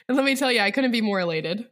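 deadpan flat delivery of joy; monotone. Real, not acted. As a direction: say it totally flat, no excitement. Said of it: "Don't let her voice fool you, her monotone".

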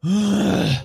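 high, put-on ancient vampire voice; decrepit old vampire. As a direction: greet an old foe in a high, aged vampire voice. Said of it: "decrepit looking vampire with a walking stick".

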